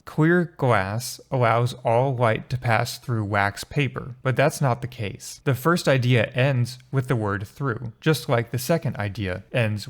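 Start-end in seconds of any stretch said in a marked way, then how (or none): 0.0-4.1 misreading. Shown as a demonstration. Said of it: "they want you to think that it says".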